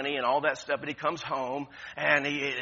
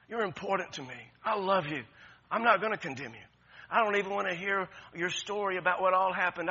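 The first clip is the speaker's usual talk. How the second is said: gentle invitation. Acted. Loving church message voiced.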